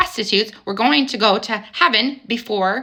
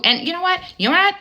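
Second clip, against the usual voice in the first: fired up; 10 semitones higher, faster than usual. Real, not acted. Fired-up rant, building.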